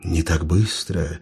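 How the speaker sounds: low, quiet, slow stern guard. Acted. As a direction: block his way, coolly. Stern elf guard blocks path.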